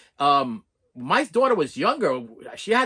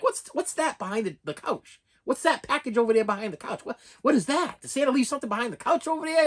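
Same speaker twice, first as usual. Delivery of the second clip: Christmas Story dad; 8 semitones higher than usual. Retold or imitated. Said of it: "like a Christmas Story moment".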